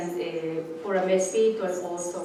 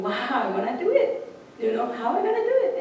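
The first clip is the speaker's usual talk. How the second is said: eager hummingbird; 4 semitones higher than usual. Retold or imitated. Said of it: "he was thinking".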